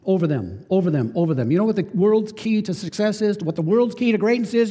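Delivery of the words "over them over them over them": "over them" repeated with weight on "over"; stressing over them. Shown as a demonstration. Preacher hammering the key phrase, emphatic. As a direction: lean on "over" each time. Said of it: "Key phrase two times".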